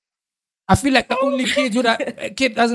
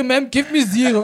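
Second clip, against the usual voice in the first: laughing mock plea; 3 semitones higher than usual. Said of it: "Wa bona wa re".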